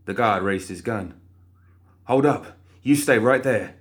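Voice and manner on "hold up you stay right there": louder, firm command; armed guard's loud warning; stern warning. Acted. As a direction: order her to stop. Guard raising his gun.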